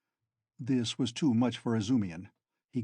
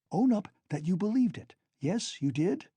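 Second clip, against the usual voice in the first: wrathful; 7 semitones higher than usual. Acted. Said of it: "looked wrathfully at him".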